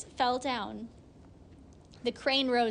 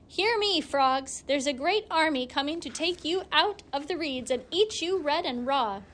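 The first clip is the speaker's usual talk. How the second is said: high, loud warning call; 4 semitones higher, 3 dB louder than usual. Acted. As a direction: shout a false alarm to the frogs. Weasel calls out to frogs.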